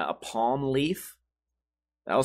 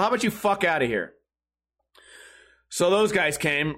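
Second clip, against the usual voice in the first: normal talking voice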